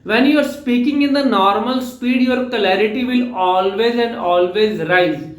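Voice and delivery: measured slow-paced teaching line; slow emphasis. Shown as a demonstration. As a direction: spell out the lesson word by word. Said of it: "अपनी speed का ध्यान रखना है".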